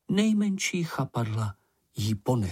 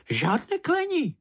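much higher squeaky voice, primly warning; high little Sniff; 3 dB louder than usual. A narrator's reading. Sniff scolds Moomin for cursing, squeaky and prim. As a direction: chide him like a prissy little creature. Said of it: "upozorňoval ho Čenich".

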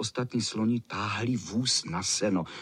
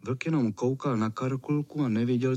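ordinary delivery

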